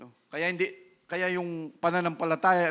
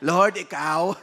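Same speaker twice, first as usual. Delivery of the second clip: chuckling through the words; a shy laugh as you give in; laughing sheepish reply; 7 dB louder, slower than usual. Acted. Moses answering God with a sheepish laugh.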